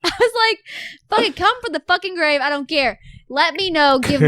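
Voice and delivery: half-laughing retold demand for a sign; mock desperate plea. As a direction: act out begging her mother for a sign. Retold desperate plea to dead mom.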